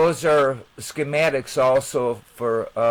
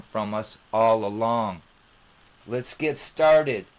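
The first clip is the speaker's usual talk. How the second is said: measured, slightly raised presenter read; channel intro read. Acted. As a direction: read the opening like a show host.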